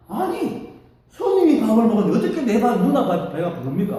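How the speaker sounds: high, loud, incredulous comeback; indignant retort. Retold or imitated. Sister answering her monk brother's odd question, loud indignant retort.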